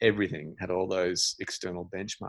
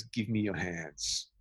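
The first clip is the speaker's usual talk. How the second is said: slow quiet request; 6 dB quieter, much slower than usual. Retold or imitated. Calm man's odd request.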